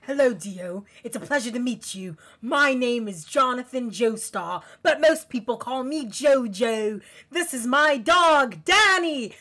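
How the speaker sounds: hammed-up British dub voice, rising on the last name; British accent, Jonathan. Fan imitating Jonathan introducing himself, exaggerated British accent. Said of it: "especially with the British accents".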